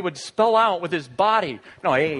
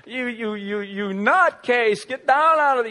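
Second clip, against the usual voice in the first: mock scolding; 4 semitones higher, 6 dB louder than usual. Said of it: "I keep".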